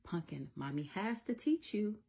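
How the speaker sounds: lightly voiced patient mommy; a hint of gentle explaining to a little one; mommy to child. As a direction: mom reasoning with her child. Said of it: "sometimes I'm like".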